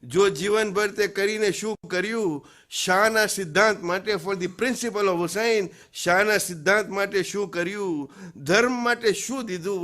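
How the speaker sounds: insistent declaimed questioning; impassioned poem recitation. Acted. Preacher asks what you did for faith, impassioned recitation. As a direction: press each question on the listener, building. Declaims verse with brief translation.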